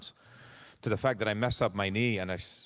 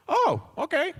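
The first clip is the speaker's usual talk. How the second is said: mock clueless; 4 dB louder than usual. Clueless reply to showrunner.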